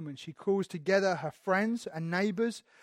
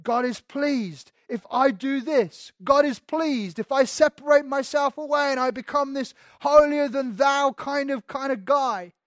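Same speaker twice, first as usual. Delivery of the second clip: higher, louder, slowed, smug; a hint of a smug Pharisee; mock Pharisee; 4 semitones higher, 3 dB louder than usual. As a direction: play a self-righteous holier-than-thou man. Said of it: "scribes and Pharisees who would say".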